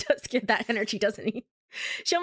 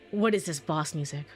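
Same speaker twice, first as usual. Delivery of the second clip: ordinary delivery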